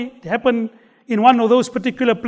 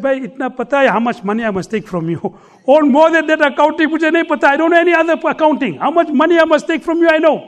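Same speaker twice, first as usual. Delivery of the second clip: chuckling reply, raised pitch; laughing boatman; 4 semitones higher, faster than usual. Retold or imitated. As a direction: answer through a laugh.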